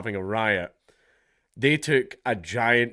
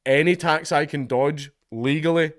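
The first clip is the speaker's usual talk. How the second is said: emphatic; 5 semitones higher, 6 dB louder than usual. Real, not acted. Proud of tax dodging.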